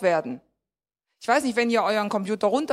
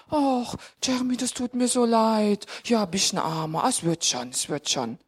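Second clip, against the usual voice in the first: pitying consolation. Acted. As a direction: console a child with mock pity. Acts a parent pitying a child. (mitleidig tröstend, immer tiefer und leiser)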